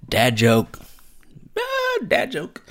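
loud, silly mock announcement; hammed-up joke call-out. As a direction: crow it out, leaping into a squeak. Announcing his own corny joke.

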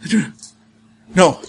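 building from no to shrieked no; desperate scream. Acted. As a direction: panic rising to a loud scream. Kumiho screams as dog attacks.

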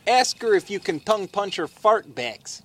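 put-on Wisconsin accent by mistake; botched Boston-turned-Wisconsin accent. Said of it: "No, wait, that's Wisconsin".

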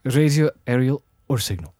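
Scottish-accented reading, dropping off at the end; Scottish accent narration. Shown as a demonstration. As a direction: read in Scottish, easing down. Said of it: "you don't have to shout".

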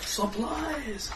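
a terrible put-on Asian accent. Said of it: "I'm using my terrible Asian accent".

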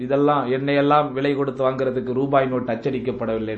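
low, swaggering movie one-liner; punch dialogue. Retold or imitated. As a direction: deliver it like a film hero's punchline. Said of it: "டக்குன்னு punch dialogue போட்டுரும்". (பஞ்ச் dialogue பாணியில்)

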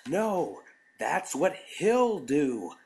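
loud slow desperate plea; desperate pleading. A narrator's reading. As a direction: beg loudly, desperately. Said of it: "pleading desperately".

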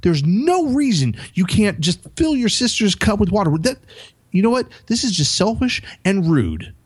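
high, harsh scolding of a son; reenacted angry dad telling off his son; retold angry yell. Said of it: "I literally yelled at him".

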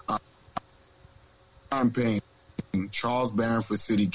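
breaking up over a bad connection; words cut in and out like buffering; choppy audio. Real, not acted. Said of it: "We was getting a little choppy audio".

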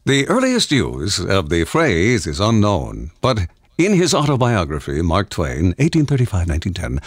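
lightly put-on announcer read, measured. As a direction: read it out like an announcer, slightly hammed-up. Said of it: "in an announcer voice".

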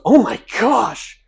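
loud, high, slow and drawn-out gushing; hammed-up swooning praise; gushing lady. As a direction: imitate an over-the-top gusher, stretching the words. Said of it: "this lady goes".

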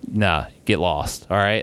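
low, slow brush-off; low unbothered get-lost; dismissive. Retold or imitated. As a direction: wave him off lazily. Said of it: "we told him".

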